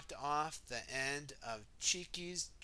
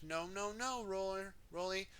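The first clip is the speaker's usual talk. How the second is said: a hint of fussy Missus Potts; 5 semitones higher, faster than usual. Missus Potts warns Rolly.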